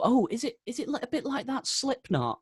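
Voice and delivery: high, lightly mocking quote of an outsider; mock clueless asker. Musician mocks outsiders asking if it's like Slipknot, high mock voice. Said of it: "some people, like, go".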